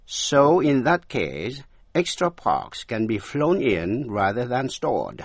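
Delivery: slow, careful English model sentence; slow model reading. Shown as a demonstration. Teacher reading the dialogue line slowly to students. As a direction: read it slowly for learners. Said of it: "nếu đọc nhanh".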